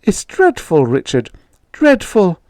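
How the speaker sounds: frightened mother. Acted.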